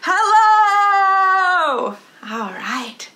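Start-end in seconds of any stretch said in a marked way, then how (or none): 0.0-2.0 big, loud, high sung hello. Shown as a demonstration. Teacher leading kids, shouting hello as loud as possible. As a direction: belt it out as loud as you can. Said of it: "as loud as we can".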